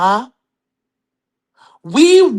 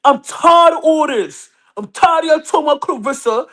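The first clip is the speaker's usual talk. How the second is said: husband's voice; 2 semitones higher than usual. Pretend. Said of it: "I'm doing my husband's voice".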